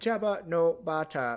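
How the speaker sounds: choppy, clipped, high droid voice. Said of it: "it's so clipped".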